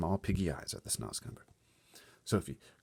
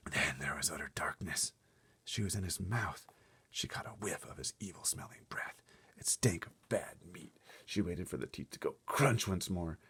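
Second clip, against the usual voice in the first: whispered, soft suspense narration; hushed suspense; 3 dB quieter than usual. A narrator's reading. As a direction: breathe it out as if afraid to be heard.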